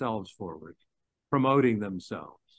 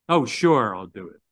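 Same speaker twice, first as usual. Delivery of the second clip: grudging sarcasm; 7 dB louder than usual. Shown as a demonstration. Preacher showing the congregation a grudging, sarcastic yes. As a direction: say yes like you resent every word. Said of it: "Does that sound like I'm happy to do it?".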